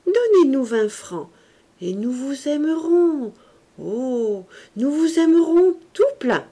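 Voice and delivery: high, loud sugary coaxing; cajoling girl. A narrator's reading. Nieces cajoling their uncle for money, high sugary voice. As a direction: bargain with sweetness. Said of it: "Elles s'étaient jetées à son cou".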